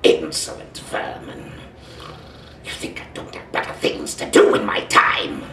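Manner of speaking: scornful robot warrior looking down on vermin; Dinobot. Acted.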